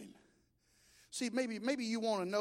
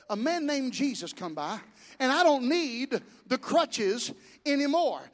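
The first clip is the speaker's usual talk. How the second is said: put-on testifying boy, building; 3 semitones higher, 5 dB louder, slower than usual. Healed boy repeats, testifying.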